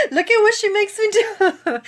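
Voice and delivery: high, loud laughing through tears; tearful laugh. Real, not acted. Vlogger crying on camera, laughing at herself. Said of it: "I would be on here crying".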